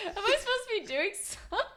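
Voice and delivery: imitating puzzled friend. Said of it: "And you're like".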